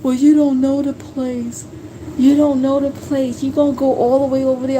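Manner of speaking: mock doubting coworker. Coworkers telling husband he doesn't know the place, mocking imitation.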